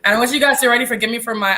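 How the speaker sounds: stuffy nose, nasal and congested. Real, not acted. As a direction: talk through a blocked, nasal nose. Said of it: "I'm kinda nasally".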